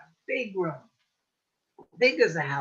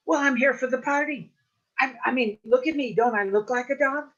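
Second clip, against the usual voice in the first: pleading Coyote; 6 semitones higher, 4 dB louder than usual. Acted.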